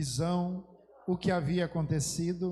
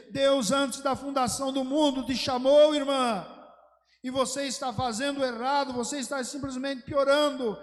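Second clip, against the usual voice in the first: louder and higher, pressing hard; urgent plea; 6 semitones higher, 4 dB louder than usual. Retold or imitated. Preacher retelling his plea to the woman, louder and urgent. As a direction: plead with her urgently.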